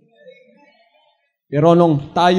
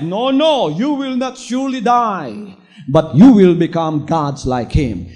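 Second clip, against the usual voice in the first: devil tempting; 7 dB louder than usual. Retold or imitated. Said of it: "interjection of the devil of doubt came when he said".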